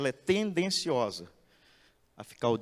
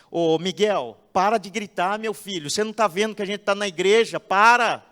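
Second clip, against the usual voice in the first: put-on loud, high, fast telling-off of a child; scolding parent; 5 semitones higher, 8 dB louder than usual. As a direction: snap at the shouting boy to stop. Parent scolding screaming child in church.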